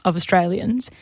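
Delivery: hard-boiled detective narration; gumshoe voice. Acted. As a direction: read it like a noir private eye. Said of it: "you put the gumshoe voice on".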